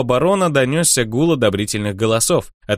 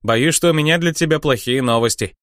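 mock sigh; 4 semitones higher than usual. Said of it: "притворно вздохнул Финиамин".

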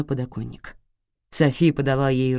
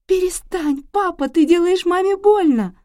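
put-on much higher girl's voice pleading; terrified child; 5 dB louder than usual. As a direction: plead through fear as a little girl. Daughter begging father to stop.

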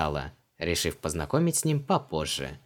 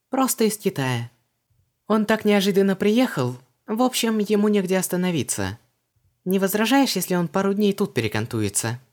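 put-on much higher, lively young woman; Vanessa's voice; 11 semitones higher, 5 dB louder than usual. A narrator's reading. Vanessa asks Creole about his customs, puzzled. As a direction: pitch her up, brisk and puzzled.

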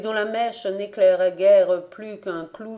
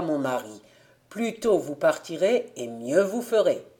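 put-on lightly lowered voice of an old farmer giving orders; a hint of a stern father sending his girl off; 4 semitones lower than usual. Father instructing Rousille to go fetch Jean-Némi, lightly low and firm. Father sends daughter to aunts.

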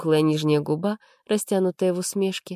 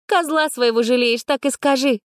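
much higher, scornful snort; snorting jab; 7 semitones higher, 3 dB louder than usual. A narrator's reading. Arina snorts at Max for protecting his jeep. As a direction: needle him for sparing his car. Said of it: "фыркнула девушка".

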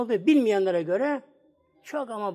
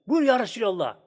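mildly raised, eager call of welcome; retold calling out; 3 semitones higher than usual. Dreamer welcomes the Prophet in his dream, retold as calling out. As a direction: imitate someone crying out, without a full shout. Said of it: "Böyle bağırıyor böyle".

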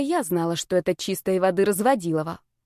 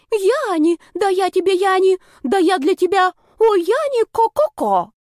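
far higher, louder swooning mock girl, clucking ко-ко-ко; mock lovesick girl; 11 semitones higher, 5 dB louder than usual. Sister parodying a girl infatuated with her brother, high swooning clucks. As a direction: ham up a fawning girl swooning over Yani. Alya mimics lovesick girls.

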